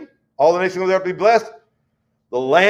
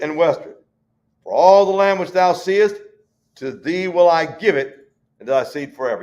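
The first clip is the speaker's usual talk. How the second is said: scripture reading. Acted. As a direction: read the old verse with solemn weight. Reads scripture aloud.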